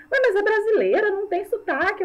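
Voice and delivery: imitating a Portugal Portuguese woman, pitched high; high, surprised European Portuguese lady voice. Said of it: "a mulher falou assim pra mim".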